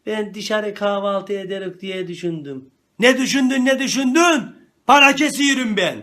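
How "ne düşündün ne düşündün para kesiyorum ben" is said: angry. Acted. Angry dad scolding kid.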